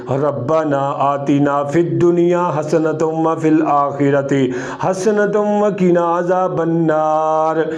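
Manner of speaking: devout recitation, slowing at the end; prayer recitation. Shown as a demonstration. Qari offering an easy dua for learners, devout recitation. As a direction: recite it calmly, lingering at the close.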